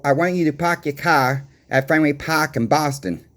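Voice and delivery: demonstrating a Boston accent; Boston Yankee accent, matter-of-fact. Shown as a demonstration. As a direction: show off your own Boston accent on park and car. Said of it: "There's my Boston accent".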